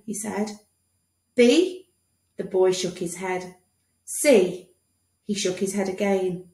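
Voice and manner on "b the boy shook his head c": quizzing doctor. Acted. Doctor guessing letters, bright quiz voice. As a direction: fire off each letter.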